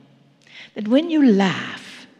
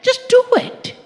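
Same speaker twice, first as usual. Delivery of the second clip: high, ringing command shout; the commander's rallying cry, shouted high; 12 semitones higher than usual. Retold or imitated. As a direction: call it out like an order. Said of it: "That is what the commander is saying".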